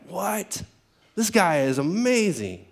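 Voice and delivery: mock disbelief, high "What?" then drawn-out amazement; amazed onlooker. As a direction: play a slightly stunned bystander.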